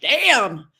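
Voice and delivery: put-on kid excitement. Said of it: "I'm like".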